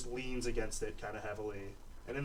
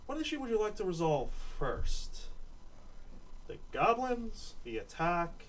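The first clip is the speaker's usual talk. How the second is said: slightly higher, measured official voice; official woman; 4 semitones higher, 4 dB louder than usual. Acted. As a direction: lay out the meeting calmly as the boss.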